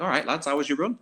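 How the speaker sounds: high, cheeky mock-innocent greeting; smug greeting. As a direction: rub it in with a grin. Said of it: "They're like".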